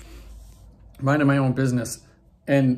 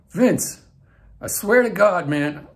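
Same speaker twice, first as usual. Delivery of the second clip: higher-pitched attempt at a light Southern accent; 5 semitones higher, 3 dB louder than usual. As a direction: start a hint of a Southern drawl, imitating a wrestler. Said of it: "his little bit of a Southern accent".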